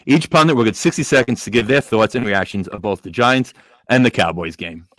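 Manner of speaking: muffled through a paper bag; host talking from under a bag; paper bag over head. Real, not acted. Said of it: "do the show with this bag on my head".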